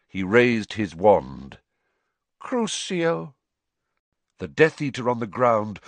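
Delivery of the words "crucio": higher, menacing spell cast; cold curse. A narrator's reading. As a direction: hurl the curse coldly. Voldemort casts a curse.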